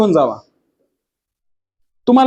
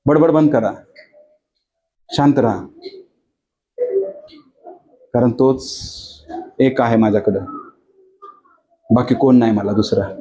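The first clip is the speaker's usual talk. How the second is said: lower, slowed, firm hush to the congregation; Kathryn Kuhlman rebuking the crowd; 9 semitones lower than usual. Retold or imitated. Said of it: "ती लगेच लोकांना म्हणली".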